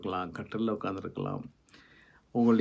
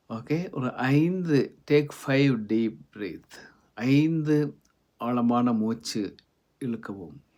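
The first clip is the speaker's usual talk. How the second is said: very slow, drawn-out meditation cue; guided breathing instruction; 4 dB louder, much slower than usual. Acted. Leads guided breathing exercise.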